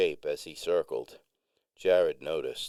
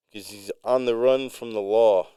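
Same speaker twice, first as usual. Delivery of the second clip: higher, louder interjection; piping in suddenly; 5 semitones higher, 8 dB louder than usual. A narrator's reading. Friend cutting in about the musician, piping up suddenly. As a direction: burst in as if telling on him. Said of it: "Jared piped in suddenly".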